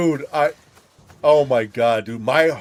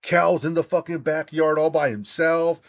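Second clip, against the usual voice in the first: retold panic; 4 semitones higher than usual. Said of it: "I start fucking freaking out".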